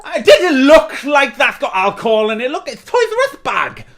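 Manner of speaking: high, loud laughing mockery; mocking laugh. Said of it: "you're mocking her".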